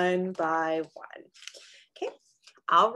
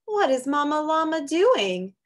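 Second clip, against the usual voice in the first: loud, higher, slowing on boo-hooing; dramatic storybook read; 6 semitones higher, 9 dB louder, slower than usual. Acted. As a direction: ham up the sad baby llama for kids. Reads a picture book aloud.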